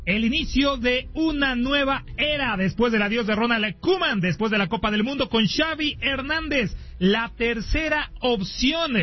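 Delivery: punchy radio announcer intro with stretched key words; sports broadcast opening. Acted. Host welcomes radio listeners to the Nations League opener, sports announcer delivery. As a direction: present the big match, leaning on names.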